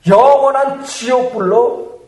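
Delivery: ordinary delivery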